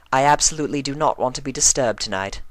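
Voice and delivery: fast, firm ladylike request; brisk Rarity. A narrator's reading. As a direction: insists on privacy.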